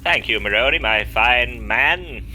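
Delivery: posh character voice. Acted.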